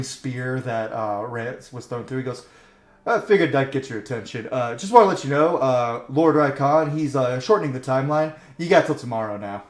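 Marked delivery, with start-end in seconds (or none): 3.1-9.6 louder, brash taunt; taunting messenger. Acted. Rider warns the party they only have till tomorrow, cocky and loud. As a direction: rub it in with a smirk. GM voices Draco's threat.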